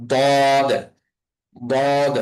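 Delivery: বদ as a heavy "dawd", tongue edge on upper molars; thick, held "dawd" for বদ; tongue-edge articulation. Shown as a demonstration. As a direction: press the tongue's side to the molars for বদ. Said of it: "গোড়ার সঙ্গে লাগাই আমাদের".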